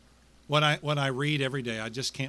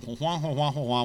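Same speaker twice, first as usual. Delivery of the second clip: Charlie Brown's mother. Retold or imitated. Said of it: "Charlie Brown's mother spoke to me again".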